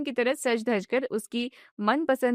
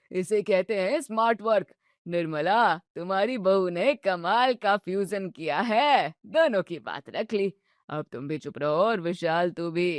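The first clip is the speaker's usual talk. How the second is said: put-on teasing old father-in-law; 3 semitones lower than usual. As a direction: savour every jibe like a mischievous grandfather.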